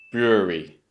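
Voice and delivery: "brewery" as BROO-ree; correct brewery. Shown as a demonstration. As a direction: model "brewery" in two syllables. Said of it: "Option A".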